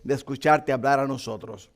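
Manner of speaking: earnest prayer, fading at the end. Acted. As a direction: pray it earnestly, then soften. Opening prayer before sermon.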